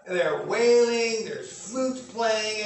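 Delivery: preacher dwelling on the wailing; slow dramatic build. Shown as a demonstration. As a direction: paint the noisy funeral, stretched out. Painting the funeral scene.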